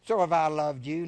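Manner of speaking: so have I loved you, with the so rising and loud; loud repeat. Shown as a demonstration. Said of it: "listen to Jesus talk to us".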